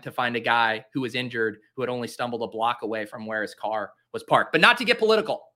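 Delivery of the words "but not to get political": mock disclaimer. Mock disclaimer, ironic emphasis.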